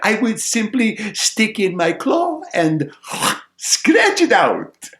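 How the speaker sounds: high, loud sparrow, slowing at the end; confident sparrow. Acted. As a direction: solve it as a plucky little bird. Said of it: "says the sparrow".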